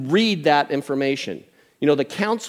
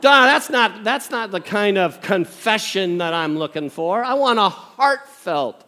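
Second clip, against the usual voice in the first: higher, exaggerated protest; mock complaint; 5 semitones higher, 4 dB louder than usual. Grandpa wanting a heartfelt confession, mock-aggrieved protest. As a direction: object with comic dissatisfaction.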